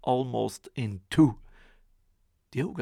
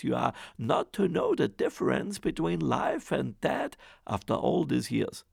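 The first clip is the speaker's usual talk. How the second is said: higher, louder fussing scold; scolding wife; 4 semitones higher, 5 dB louder than usual. Acted. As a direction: nag him about forgetting. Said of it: "the ogre's wife said".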